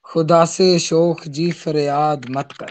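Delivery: measured ghazal recital, each line lingering; poetry recitation. Acted. (غزل کا ترنم سے پڑھنا)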